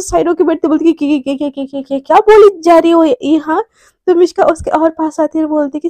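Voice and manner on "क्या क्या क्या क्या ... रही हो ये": shocked, tripping over the first word; flustered stammer. Acted. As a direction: stutter repeatedly before getting the question out. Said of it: "इश्की एकदम से shock होकर".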